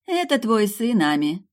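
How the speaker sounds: high, bright-voiced smiling answer; smiling reply. A narrator's reading. Deavin answers Perse, smiling. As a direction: smile through the line. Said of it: "улыбнулась Деавин".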